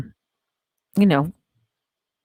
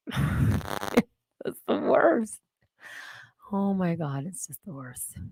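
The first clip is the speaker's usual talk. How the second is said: laughing; 9 dB quieter, much slower than usual. Real, not acted. Laughing at own story.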